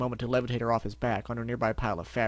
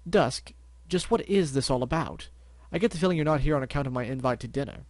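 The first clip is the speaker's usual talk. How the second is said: posh Elusive voice; 2 semitones higher than usual. Acted. Elusive character voice.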